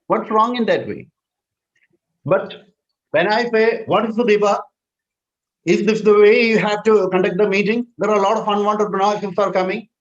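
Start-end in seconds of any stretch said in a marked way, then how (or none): 3.9-9.9 higher-pitched, pressing reproach; irritated scolding. Shown as a demonstration. Host blaming organiser for noise, irritated and higher-pitched. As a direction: scold them for the noisy meeting. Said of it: "That is an unhealthy way of expressing it".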